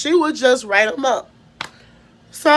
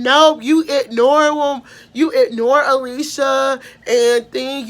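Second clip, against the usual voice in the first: raised, accusing voice; accusing girl; 2 semitones higher than usual. Retold or imitated. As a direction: call the teacher out on ignoring it.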